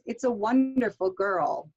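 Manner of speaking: put-on "wonderful" lifted and drawn out, then falling on "girl"; exclamatory falling intonation. Shown as a demonstration. Teacher modelling an exclamatory sentence, falling intonation. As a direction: rise on "wonderful", drop on "girl". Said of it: "exclamatory sentences".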